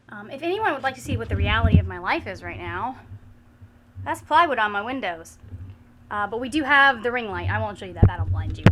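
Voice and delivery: raspy after being sick; hoarse, like a chain smoker. Real, not acted. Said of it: "I sound like a chain smoker".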